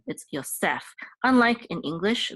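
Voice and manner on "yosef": Yosef as "yo-SEF"; stress on last syllable. Shown as a demonstration. Teacher showing the Hebrew accent, Yosef stressed on its last syllable. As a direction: land the accent on the end of Yosef. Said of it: "the accent is on, at the end".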